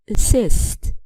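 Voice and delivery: "assist" with the stress on its last syllable; second-syllable stress. Shown as a demonstration. Teacher showing verb stress to learners, "assist" stressed on second syllable. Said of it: "Verbs stress the second syllable".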